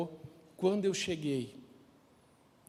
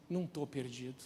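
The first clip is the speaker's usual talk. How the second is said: quiet, stubborn "Não tô perdido"; proud denial; 4 semitones lower, 8 dB quieter than usual. Retold or imitated. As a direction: mutter it with stubborn pride. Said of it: "Olha que orgulho miserável". (negando com orgulho: "Não tô perdido")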